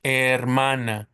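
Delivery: slow hermana starting on the vowel, "ermana"; silent H. Shown as a demonstration. Teacher modelling the feminine word, hermana with silent H. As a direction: stretch out hermana with no H sound. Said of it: "We don't pronounce the H in Spanish".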